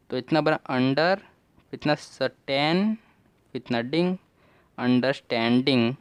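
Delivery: "under", "स्टैन", "डिंग" said slowly one at a time, then joined as "अंडरस्टैंडिंग"; syllable by syllable. Shown as a demonstration. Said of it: "हमने तोड़ तोड़ के पढ़ा".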